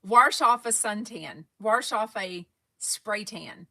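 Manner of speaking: "Wash" drawn out slowly with an r, warsh; slow careful "wash". Shown as a demonstration. Vlogger practising "wash" in phrases. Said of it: "I can't say wash".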